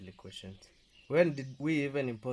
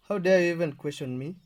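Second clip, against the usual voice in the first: loud indignant demand, higher; angry outburst; 5 semitones higher, 7 dB louder than usual. Acted. Husband shouting down his wife, angry. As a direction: assert your authority hard.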